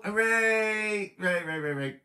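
cheering. Real, not acted. Cheering a friend out of hospital.

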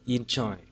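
"enjoy" with the stress on "joy"; teacher's model "enjoy", stressed at the end; second-syllable stress. Shown as a demonstration. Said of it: "trọng âm rơi bấm tiết thứ hai".

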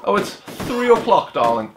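slow, high-pitched mock posh accent. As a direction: put on a posh accent, lingering on the th. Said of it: "it sounds very posh".

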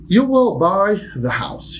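slow, high, "will" stressed; slow model sentence. Shown as a demonstration. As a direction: dictate slowly to the class. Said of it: "teacher demo".

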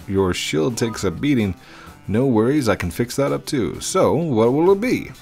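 bright, welcoming shop owner; cheerful shopkeeper voice. Acted. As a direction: greet the customer like a friendly shopkeeper.

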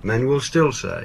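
"still" stands out, said slowly; stress on still. Shown as a demonstration. Presenter reading Churchill's line, slow, with emphasis on "still". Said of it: "the emphasis on still".

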